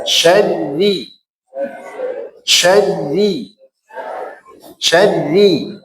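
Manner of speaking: SYARRI with a thin, light ra; thinned syarri. Shown as a demonstration. Teacher drills the class on Syarri, thin ra.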